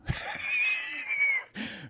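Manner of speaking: very high shrieked laugh burst; wild high laughter; shrieking laugh. Real, not acted. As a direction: burst into a squealing cackle.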